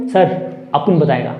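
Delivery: mock a cheeky student who brags he knows the answer; cocky student. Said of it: "तो तुम बोलोगे". (टपोरी अंदाज़ में शेखी बघारता छात्र, हल्की नकल)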